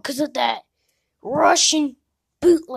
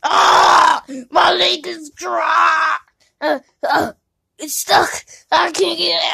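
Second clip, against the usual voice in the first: panicked shout; 3 semitones higher, 4 dB louder than usual. Acted. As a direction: shout in alarm at being stuck. Character gets stuck in panic.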